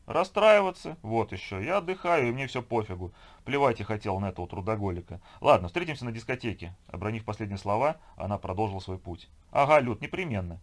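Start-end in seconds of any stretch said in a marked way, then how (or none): 0.1-6.7 high, loud scoffing opening; scornful friend. Acted. Woman dismissing her absent workaholic partner, scornful. 9.5-10.6 raised, higher friendly call; calling after her. Acted. Woman shouting after her departing friend, calling out. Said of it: "вдогонку ей крикнула незнакомая подружка".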